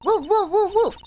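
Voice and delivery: lightly voiced dog barks; mock barking. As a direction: bark like an excited little dog.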